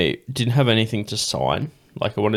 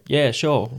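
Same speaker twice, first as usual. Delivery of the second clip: a hint of Cockney, slightly raised pitch; light Cockney English; 5 semitones higher than usual. Metal singer agreeing to a fan's request, light Cockney. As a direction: lightly imitate a Cockney accent. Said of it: "He's, like, Cockney English".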